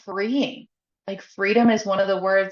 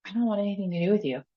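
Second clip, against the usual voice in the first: quick, hurried delivery; rattled off fast, no emphasis; said really fast; 4 dB quieter, much faster than usual. Acted. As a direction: rush through it in one quick run. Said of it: "I said that really fast".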